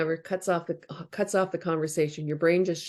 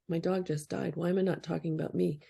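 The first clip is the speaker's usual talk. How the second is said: quiet; 7 dB quieter, faster than usual. Retold or imitated. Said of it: "it's like".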